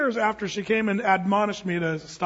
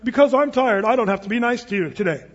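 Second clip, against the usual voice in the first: louder, sulky mock of a tired jerk; mock grumpy excuse; 5 dB louder than usual. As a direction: whine it like a spoiled grouch. Mocking tired grumpy adults.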